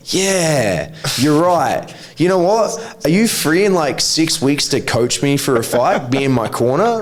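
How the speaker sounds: mock agreement. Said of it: "read that comment and go".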